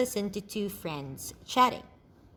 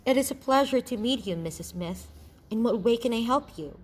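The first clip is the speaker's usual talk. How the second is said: polite, professional greeting; courteous receptionist manner; measured, correct formality; 3 semitones higher than usual. Acted. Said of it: "The tone of this question is formal".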